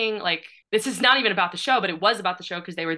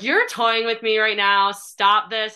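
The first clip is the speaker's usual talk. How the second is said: higher, louder retold protest; mock disbelief; 4 semitones higher, 5 dB louder, slower than usual. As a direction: push back, half-pleading, at being teased. Retold disbelieving reply to director.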